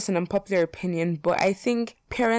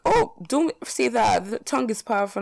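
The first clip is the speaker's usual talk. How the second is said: mock admonishing; 5 semitones higher than usual. People warning her about not wanting kids, mock admonishing. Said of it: "people are like".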